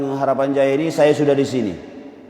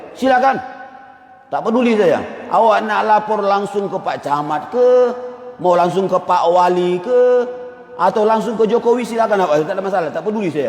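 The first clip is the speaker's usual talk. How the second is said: higher, careless mock brush-off; dismissive RT; 6 semitones higher than usual. The RT telling him to go to the camat, dismissive. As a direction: wave him off, couldn't care less. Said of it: "kata Pak R T".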